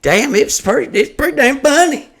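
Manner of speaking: mock surprised fan. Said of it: "they'll tell me after the show".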